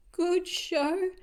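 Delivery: high, loud jolly cheer; hearty praise. Acted. Teacher cheering after the pile-up, high and loud.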